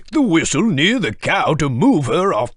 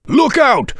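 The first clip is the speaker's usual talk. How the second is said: urgent warning call; 9 semitones higher, 5 dB louder than usual. Acted. Warning of cracked track.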